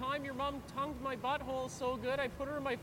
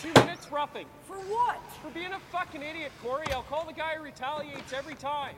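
Canadian hockey player; 4 dB louder than usual. Acted. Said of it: "Sounds nothing fucking like me".

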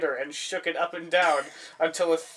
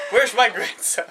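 put-on old man voice; 4 semitones higher than usual. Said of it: "I just love talking like an old person".

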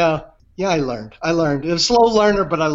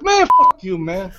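high, loud joking yell; hammed-up angry shout; mock outburst; 5 semitones higher, 6 dB louder than usual. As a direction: shout back at a teasing friend. Narrator retorts to mocking friend.

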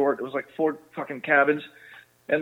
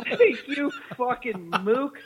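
tough guy voice; 7 semitones higher, slower than usual. Pretend. Mocking the proposing guy.

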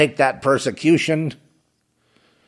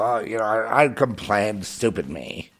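mocking whiny Christian. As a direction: parody a self-pitying believer. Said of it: "they would mock me".

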